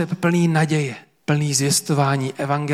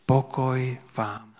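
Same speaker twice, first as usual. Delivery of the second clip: drawn-out, tender peace greeting; preacher voicing Jesus greeting disciples, slow and tender; slow, gentle blessing; 5 dB quieter, slower than usual. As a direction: give peace slowly, like a blessing. Jesus's words voiced in sermon.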